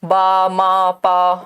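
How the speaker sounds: बा, मा, पा drawn out on a low, level note; low monotone teaching demo of बा, मा, पा; single syllables. Shown as a demonstration. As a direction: sound out बा, मा, पा one by one. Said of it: "एक सिलेबल है".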